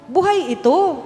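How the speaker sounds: sudden high, loud gasp of wonder; awed exclamation. Retold or imitated. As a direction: cry it out as if seeing something alive. Ziet het brandende hart.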